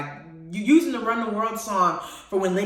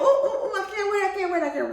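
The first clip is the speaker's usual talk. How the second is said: high-pitched, giddy excitement with a laugh; excited squeal; 11 semitones higher than usual. Real, not acted. Fan awaiting The Little Mermaid, giddy high squeal. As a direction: squeal it, bursting with anticipation. Bursting about an upcoming film.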